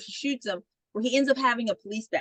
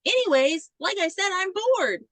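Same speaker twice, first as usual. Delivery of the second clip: bored mock shrug; 5 semitones higher than usual. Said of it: "she's just more like".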